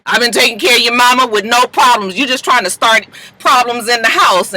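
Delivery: lightly acted indignant father; arguing daddy.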